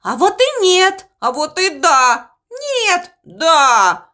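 put-on quick childish back-and-forth; squabbling. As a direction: bicker like kids. (спорят по-детски)

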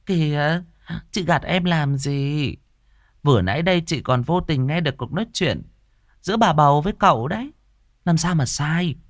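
high, sneering jealous woman; catty gossip. Acted. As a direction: needle her with fake sweetness. Tư Hiền twisting the knife.

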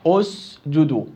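أسجدوا opening on a voiced hamza with u; with hamzat wasl. Shown as a demonstration. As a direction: add the helping hamza, أسجدوا. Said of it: "اسجدوا بصير أسجدوا". (بهمزة وصل مضمومة)

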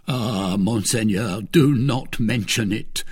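a touch of slow pleading; pitiable plea. Acted. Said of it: "cried the host in the most pitiable voice imaginable".

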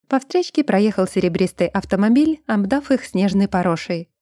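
plain reading voice

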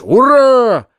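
high, loud cheer; shout. Acted. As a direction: yell hurrah. Общий крик ура. (громкий возглас «Ура!»)

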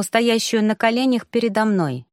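usual speaking voice

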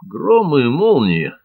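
Van Stiller cries out in amazement; exclaimed oath. A narrator's reading. Ван Штиллер громко восклицает. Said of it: "воскликнул Ван Штиллер".

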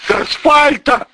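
high, loud shriek on асфальта. Acted. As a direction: squeal асфальта in terror. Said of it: "взвизнул милиционер". (взвизгнул: с асфальта)

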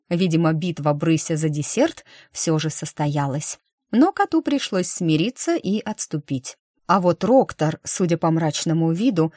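ordinary delivery, nothing marked

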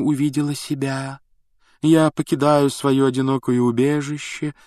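eerie ethereal prophetess voice; otherworldly mystic voice. Acted. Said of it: "мистическим потусторонним голосом".

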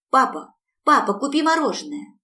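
put-on high, loud child's yell; little Yulechka yelling to her father for ice cream. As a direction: bawl it like a demanding little girl. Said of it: "заорала вдруг Юлечка".

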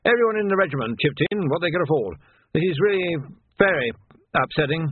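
upset, halting towards the end; mournful. A narrator's reading. Captain laments the regiment's gift, mournfully. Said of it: "said Tilden mournfully".

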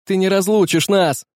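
high, loud cry; desperate shout. A narrator's reading. Young man cries out to the captain, high and loud. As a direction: scream it from the deck. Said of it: "крикнул Филиппа".

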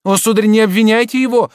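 desperate outcry; pleading cry. Acted. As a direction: rush to defend him. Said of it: "воскликнула Адриенна".

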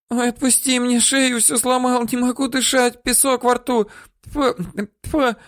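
woman begging him to loosen the grip; choking woman begging. Acted.

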